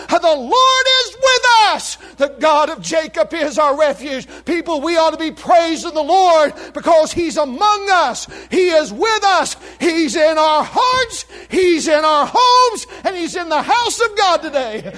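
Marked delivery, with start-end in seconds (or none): 0.1-1.9 booming proclaimed line; preaching shout. Real, not acted. 4.4-14.9 fiery preaching. Real, not acted. Preaching at full force.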